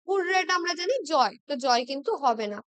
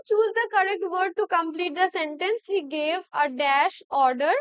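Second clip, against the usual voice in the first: slow question reading; much slower than usual. Shown as a demonstration. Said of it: "next question".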